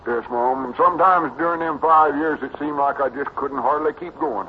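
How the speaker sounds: high country lad recounting hardship; Cedric, earnest boy. Acted. Cedric telling of five hard years, boyishly earnest. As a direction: earnestly relive the long struggle.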